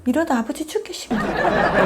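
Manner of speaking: high-pitched comic yell in Gyeongsang dialect, laughing at the end; son yelling. Acted. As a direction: burst in and holler at mother, half-laughing. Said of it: "문을 발칵 열고 소리를 지릅니다". (사투리로 높게 외치는 아들)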